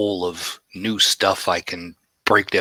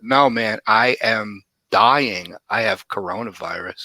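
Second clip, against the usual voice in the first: fake dying; slower than usual. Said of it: "I'm like".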